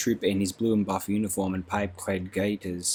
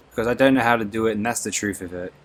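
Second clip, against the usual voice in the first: quick, louder snapping retort; fast angry burst; 4 dB louder, faster than usual. Acted. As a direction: rattle it out crossly and fast. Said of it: "snapped Beatty".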